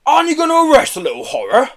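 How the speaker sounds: high, loud indignant yell. A narrator's reading. Herb demanding the policeman arrest Joe, yelling. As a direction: yell in outraged protest. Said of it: "yelled Herb".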